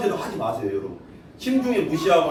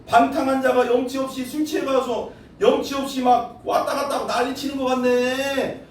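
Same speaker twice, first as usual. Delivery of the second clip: normal talking voice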